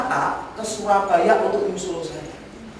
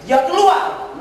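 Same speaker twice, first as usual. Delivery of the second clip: excited burst; 11 semitones higher, 6 dB louder, slower than usual. A narrator's reading. Story climax, she walks out.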